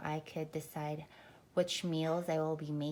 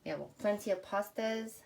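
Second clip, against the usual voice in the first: out of breath; 3 dB louder than usual. Real, not acted. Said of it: "I just finished working out, so I'm, like, out of breath".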